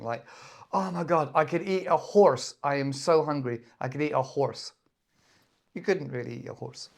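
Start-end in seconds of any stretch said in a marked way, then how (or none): 0.7-4.7 playful overstatement, easing off by the end; hyperbole. Acted. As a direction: act out a mildly overblown hunger complaint. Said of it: "Extreme exaggeration".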